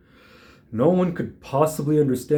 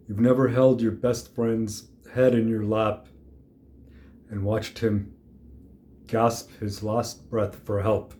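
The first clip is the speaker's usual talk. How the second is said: sombre. Acted. Telling the kid about a best friend dying, sombre and subdued.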